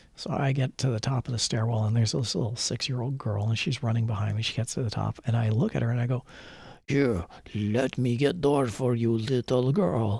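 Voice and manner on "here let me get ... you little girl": slow, put-on heavy thick European accent. Retelling offering to hold a heavy door for a little girl, fake thick European accent. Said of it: "in my most fake, thick European accent".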